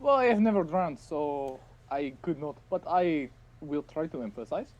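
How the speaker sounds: put-on French accent. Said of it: "I can't say it in a French accent".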